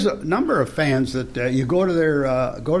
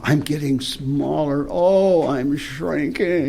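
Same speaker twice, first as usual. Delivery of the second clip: slow, strange shrinking narrator voice; shrinking smaller and smaller; slower than usual. Retold or imitated. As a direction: play the shrinking narrator, drawn out. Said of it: "the narrator had this strange voice".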